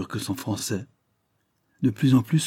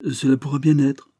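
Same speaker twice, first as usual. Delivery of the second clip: higher, louder, playful reply; good-humoured; 6 semitones higher, 5 dB louder than usual. A narrator's reading. Young traveller answering Sophie's regret, good-humoured. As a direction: say it brightly, with a twinkle. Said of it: "les yeux pétillants de bonne humeur".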